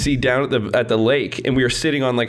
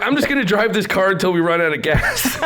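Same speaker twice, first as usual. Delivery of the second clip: laughing; 6 semitones higher than usual. Retold or imitated. Retelling his plan, laughing.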